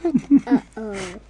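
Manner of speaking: a big, loud uh-oh; child shouting the uh-oh along with the story. Pretend. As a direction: boom it out like a kid playing along. Child echoes the uh-oh loudly.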